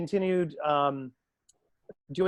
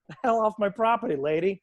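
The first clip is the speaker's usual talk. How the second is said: higher-pitched joking dismissal; mock telling-off; 5 semitones higher than usual. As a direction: playfully order a pushy parent away.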